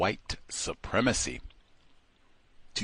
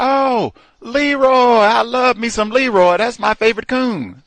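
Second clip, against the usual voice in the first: much higher, much louder gushing praise; gushing accountant; 14 semitones higher, 10 dB louder than usual. Retold or imitated. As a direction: gush over Leroy at the top of the voice. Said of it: "And he goes".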